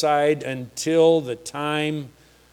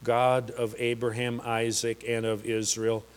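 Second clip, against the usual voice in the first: calm prayer. Retold or imitated. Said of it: "said, not shouted, not yelled, not cried. He just said".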